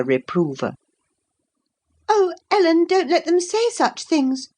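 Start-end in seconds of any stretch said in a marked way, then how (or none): 2.1-4.5 troubled plea. A narrator's reading. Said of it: "she pursued in great trouble".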